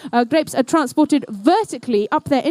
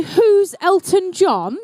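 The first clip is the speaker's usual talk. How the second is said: put-on quoting the child; 5 semitones higher, much slower than usual. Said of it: "Did someone just say".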